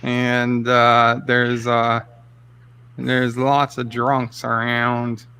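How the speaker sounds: slow, hesitant mock Irish; lightly hammed-up Irish countryman; put-on Irish accent. Host invents tales of Ireland, slow put-on Irish accent. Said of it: "give him the full Irish".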